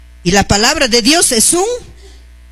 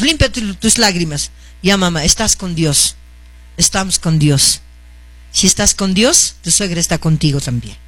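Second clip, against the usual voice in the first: lower, matter-of-fact reassurance; acted consoling; 3 semitones lower than usual. Mother-in-law advising the crying teacher, consoling. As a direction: talk her down from tears, voice settling low. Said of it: "le habla a la profesora así".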